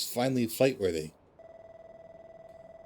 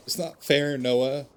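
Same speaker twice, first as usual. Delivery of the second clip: louder, higher cry of grief; upset outburst, raised; anguished protest; 4 semitones higher, 4 dB louder, slower than usual. Acted. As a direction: protest the loss, voice rising. Grieving character protests loss.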